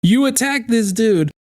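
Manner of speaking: indignant accusation. Real, not acted. Commentator accusing the guest of an unprovoked attack, indignant.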